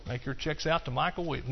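soft deadpan joke, like a sly salesman slipping in his own name; mock salesman plug. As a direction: say it quietly and straight-faced as a gag. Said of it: "like a car salesman".

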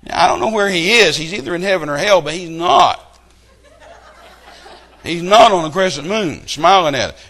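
full-force pulpit protest; preaching loud. Real, not acted. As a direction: thunder it at the congregation. Preacher rebutting the celebrity claim.

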